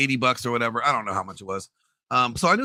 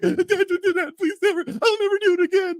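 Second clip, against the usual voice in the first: put-on high, pleading kid's sob-voice, much higher; imitating son sobbing; 4 dB louder than usual. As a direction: whine it like a crying little boy begging dad. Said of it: "he is, like, sobbing".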